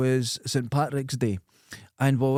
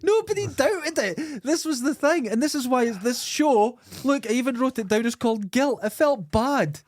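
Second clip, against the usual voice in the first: incredulous; 10 semitones higher than usual. Real, not acted. Amazed that everyone believed the made-up story, incredulous. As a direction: protest it high, amazed at your own con.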